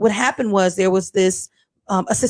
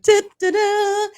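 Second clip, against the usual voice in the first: high sung-out little fanfare; drawn-out high "da da da"; imitated alert sound; 11 semitones higher, slower than usual. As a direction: sing out a slow, high alert.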